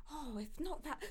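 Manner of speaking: high, soft imitation of a flustered denial; mock awkward backtracking. Imitating a lady caught out over her remark, awkwardly backtracking. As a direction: lift the pitch and soften it, imitating her. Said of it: "You know when they do that?".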